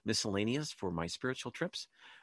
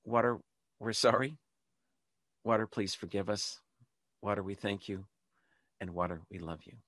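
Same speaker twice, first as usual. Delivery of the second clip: led prayer. Shown as a demonstration. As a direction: pause after each short plea, as if leading a congregation. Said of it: "let's do it one more time".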